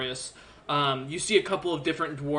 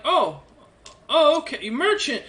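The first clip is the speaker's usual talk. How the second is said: dwarf guards; 11 semitones higher, 6 dB louder, slower than usual. Acted. Dwarves lowering weapons, voiced by GM.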